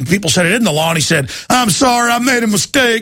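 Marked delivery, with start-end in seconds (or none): 1.5-3.0 put-on laid-on Texas accent, pitched up. Retelling what Perry said after people objected, in a Texas-accent Perry impression. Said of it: "I got a Texas accent there for you".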